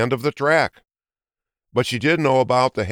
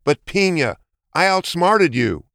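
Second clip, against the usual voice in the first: higher, astonished cry; gasping surprise; 8 semitones higher than usual. A narrator's reading. Hare gasps on seeing the twin. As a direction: gasp in shock at the trick. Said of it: "Jules gasped".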